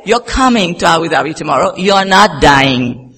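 loud, lightly acted insistence, slowing at the end; firm retold order. Pastor husband overruling his sick wife, emphatic mock order. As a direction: lay down the law, mimicking him.

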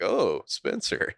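drawn-out surprised realisation, imitated; mock double take. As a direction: play a slow double take. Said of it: "he, like, does this double take".

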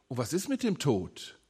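a hushed preacher's whisper about death. Acted. Preacher's hushed rhetorical question.

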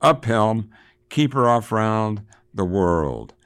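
captain's cry, drawn out at the end; old lion voice. A narrator's reading. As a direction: call out the order like an old lion. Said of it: "he cried out in his old lion voice".

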